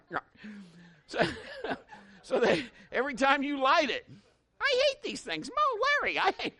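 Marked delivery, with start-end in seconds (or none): 4.6-6.5 high, squeaky Curly whine; hammed-up Three Stooges squeal. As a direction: whine it like a slapstick comic. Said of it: "Sound like Curly from the Three Stooges".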